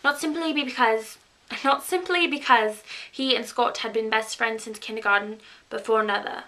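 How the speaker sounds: lightly put-on British accent, read aloud. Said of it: "today I'm coming to you with a British accent".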